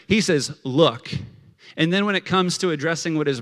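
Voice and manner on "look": loud, curt acted anger; disrespectful, forceful address; mad older brother. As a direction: confront him with one word. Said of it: "This is how mad the older brother is".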